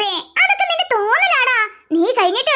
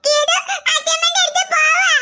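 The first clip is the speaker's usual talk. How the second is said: put-on sulking child; 2 semitones higher than usual. Child sulks, threatens leaving.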